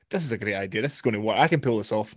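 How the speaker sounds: low, hushed self-talk; mock self-assurance. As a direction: softly talk yourself into it, imitating a deluded star. Acted inner voice of Vin Diesel.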